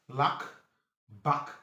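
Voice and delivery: "Lack", "Back" with a brief open A; short A. Shown as a demonstration. Teacher shows A C gives short A, brief "Lack", "Back". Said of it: "it gives you short A".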